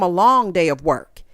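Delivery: "work" given extra weight; stress on work. Real, not acted. Recapper stressing how hard she works, emphasis on "work". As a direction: lean on the word "work" at the end. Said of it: "Emphasis on work".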